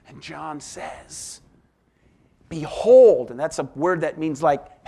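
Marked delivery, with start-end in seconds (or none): 2.5-3.3 a sudden shouted Behold; ringing attention-grabbing cry; loud call. Acted. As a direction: call out to wake the listeners. Preacher calls out the Baptist's word.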